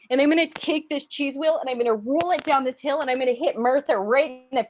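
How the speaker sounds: over-the-top Minnesotan rant; crazed Minnesota accent. Acted. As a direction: go giddily unhinged in a Minnesota accent. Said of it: "the voice goes crazy".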